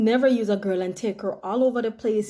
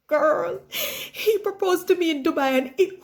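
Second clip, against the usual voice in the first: laughing excitement; 6 semitones higher than usual. Acted. Announcing engagement, laughing.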